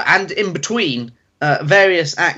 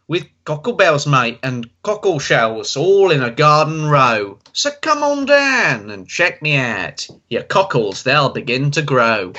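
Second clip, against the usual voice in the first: put-on Australian accent. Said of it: "change to Australian now".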